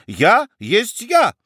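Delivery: an affronted baroness demanding an answer; indignant. Acted. Baroness bristles at the judge's court: high indignant cry. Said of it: "возмутилась баронесса".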